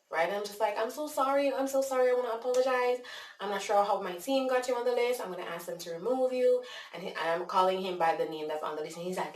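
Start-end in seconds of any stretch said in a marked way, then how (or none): 0.8-6.6 high, insistent customer-service apology; apologizing in character. Retold or imitated. Caller to an upset man on the list, profuse in-character apology. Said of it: "I am staying in character".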